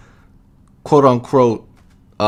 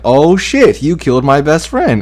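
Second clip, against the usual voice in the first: mock angry yell; 5 semitones higher, 5 dB louder than usual. Bucky retold, raging at Thanos.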